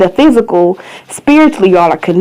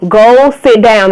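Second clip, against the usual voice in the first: louder, drawn-out parental command; sterner repeated order; 6 dB louder, slower than usual. Real, not acted. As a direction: stretch the words out and mean it.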